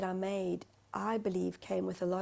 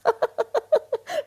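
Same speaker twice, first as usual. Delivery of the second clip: loud, high burst of laughter; real high-pitched laugh; 12 dB louder than usual. Real, not acted. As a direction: laugh loudly at your own silly voice. Laughs at own accent.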